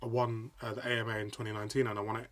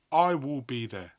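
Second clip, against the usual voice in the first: slow, louder vow of certainty; slow and emphatic; determined vow; 2 semitones higher, 9 dB louder, slower than usual. Retold or imitated. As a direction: plant your feet and promise it. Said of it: "watching football games going".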